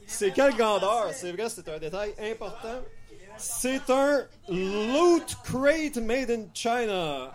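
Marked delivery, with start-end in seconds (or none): 3.4-7.3 very slow, drawn-out English; slow mock pitch. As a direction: stretch every word like a sales pitch. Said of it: "mock English brand pitch". (lecture lente et appuyée, façon pub)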